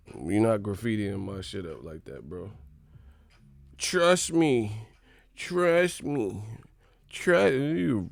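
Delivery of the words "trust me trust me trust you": high, singsong parroting; mocking repetition. Mocking a repeating chatter, high parroting voice. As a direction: parrot it pitched up, like a stuck record. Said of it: "Broken record".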